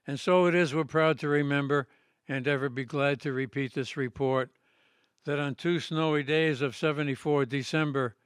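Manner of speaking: declaimed rhyming ballad, measured line by line; poem recitation. Acted. Poet reads his Revolutionary poem to an audience, declaimed recitation. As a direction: recite a patriotic historical poem in steady metre.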